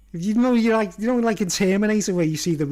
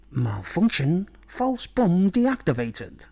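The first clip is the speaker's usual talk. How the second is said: robot readout; much slower than usual. Shown as a demonstration. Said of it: "repeats the gag".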